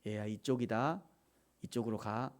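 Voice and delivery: low, soft fatherly nudge; hushed, low, tender direction; gentle guiding whisper. Acted. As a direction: guide the child very quietly. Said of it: "하나님이 세미하게 말씀하실 때".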